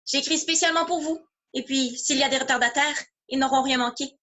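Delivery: addressing the audience. Acted. Playwright tells the audience gathered to judge, addressing them. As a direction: lightly play a performer announcing to the house. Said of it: "je leur ai dit".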